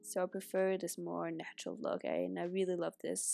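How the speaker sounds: stuffy nose from a cold; blocked nose. Real, not acted. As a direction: talk with a congested nose. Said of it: "so I sound very congested".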